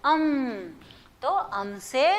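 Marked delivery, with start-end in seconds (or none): 0.0-0.6 अम with a long hummed "m"; teacher's drawn-out model of अम; demonstrated pronunciation. Shown as a demonstration. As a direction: say अम, holding the nasal ending. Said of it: "हम उसको बोलते हैं".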